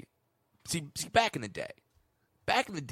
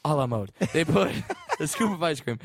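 winded sweaty guy voice; puffing between words; out of breath. Acted. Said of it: "I'm getting winded talking like a fat guy".

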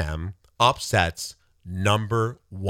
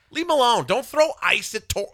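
mock heckler; 11 semitones higher than usual. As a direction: sneer it out as a shrill online troll. Mocking online hecklers.

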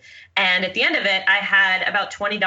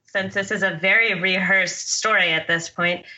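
narrator voice. Shown as a demonstration. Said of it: "I won't do my narrator voice".

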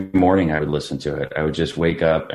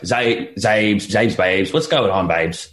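put-on British accent; 3 semitones higher, slower than usual. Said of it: "she's so British".

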